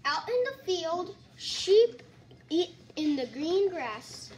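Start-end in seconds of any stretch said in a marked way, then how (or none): 1.4-2.0 called out higher and louder; loud exclaimed word. Acted. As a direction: sing out the word loudly. Child reading animal book aloud.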